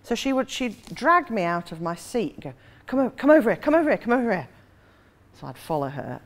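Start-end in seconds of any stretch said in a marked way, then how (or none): 2.9-4.5 put-on insistent young woman. Acting the Geordie woman dragging her along.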